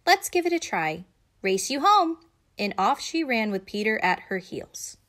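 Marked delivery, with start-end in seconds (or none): 0.1-2.2 put-on eager girl. A narrator's reading. Judy's eager challenge.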